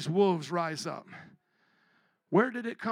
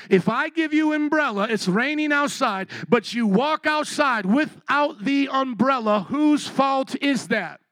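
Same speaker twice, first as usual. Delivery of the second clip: higher, louder and slower, pressing each word; louder, slower repeat; 4 semitones higher, 4 dB louder than usual. Shown as a demonstration. Preacher rousing a sluggish congregation, louder and slower. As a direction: drive the question home to a sleepy crowd. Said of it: "let me ask you again".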